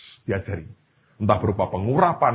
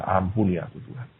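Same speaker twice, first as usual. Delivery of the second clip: ordinary delivery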